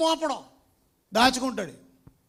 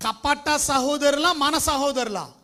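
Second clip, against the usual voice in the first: preaching hard; 7 dB louder, slower than usual. Acted. Preaching question.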